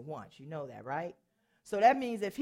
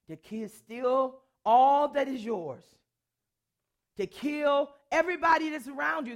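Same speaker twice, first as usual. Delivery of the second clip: full-force preacher shout; preaching climax; 3 semitones higher, 5 dB louder than usual. Acted. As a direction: hammer the threat home.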